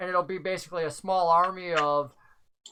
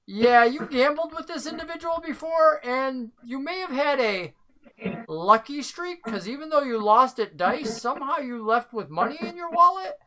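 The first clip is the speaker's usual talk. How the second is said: NPC voice; 4 semitones higher than usual. Acted. GM voices NPC reminding Lythander.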